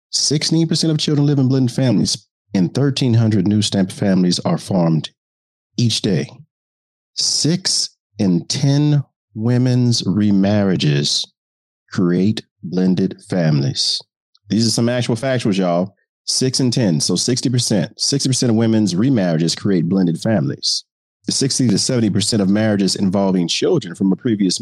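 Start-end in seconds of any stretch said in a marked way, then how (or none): 0.1-6.3 reporter voice. Acted. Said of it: "the reporter voice allows me". 7.1-14.0 reporter voice. Acted. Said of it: "the reporter voice allows me". 16.2-20.8 reporter voice. Acted. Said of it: "the reporter voice allows me".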